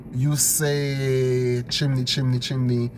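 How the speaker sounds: chimney said slowly, each sound drawn out; careful pronunciation of chimney; pronouncing chimney. Shown as a demonstration. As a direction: spell out chimney slowly, then repeat it twice.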